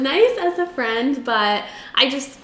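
choking while talking; choking on drink. Real, not acted. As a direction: voice catching from choking. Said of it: "I keep choking".

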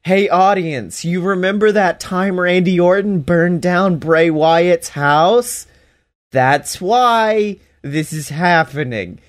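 lightly mocked spelling-it-out for the audience; mock audience address. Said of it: "they're literally just".

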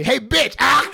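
a loud, high yell of the insult, then a shout; mock yell. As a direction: belt out the insult instead of saying sorry. Tyler yells instead of apologizing.

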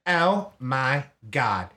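lightly mimicked slow song intro; song intro quote. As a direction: draw it out, imitating the track's spoken opening. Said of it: "you know how the beginning goes".

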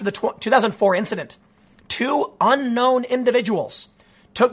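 measured, deliberate article reading; news read. Acted. Host reading a newspaper's UFO report to listeners, measured news read.

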